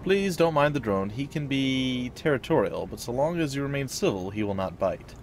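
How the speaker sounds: apologetic tone. Acted. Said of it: "his tone goes apologetic".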